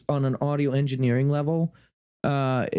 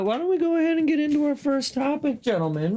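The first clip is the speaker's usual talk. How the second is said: grand host voice; 12 semitones higher than usual. Pretend. Host announces first topic.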